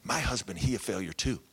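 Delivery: lightly imitated heavy Asian accent; thick foreign accent. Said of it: "heavy accent".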